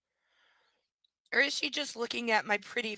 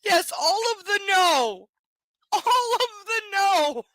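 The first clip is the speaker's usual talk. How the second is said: slow, higher and louder, drawn-out refusal; emphatic refusal; 7 semitones higher, 6 dB louder, slower than usual. Real, not acted. Reader rejects the creepy line, emphatic refusal. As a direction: refuse it all, slowly.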